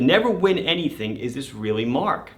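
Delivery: excited disbelief, put on; mock excited. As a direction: play the thrilled prize winner, starting high. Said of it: "this is me, very excited".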